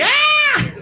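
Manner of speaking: very high comic shriek; sustained high mock-terror scream; terrified scream. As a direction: scream like someone scared by a lion. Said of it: "that's what he looks like".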